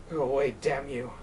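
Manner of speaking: a worn-out, spent plea; tired. Acted. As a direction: send it away with the last of his energy. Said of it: "And then tired".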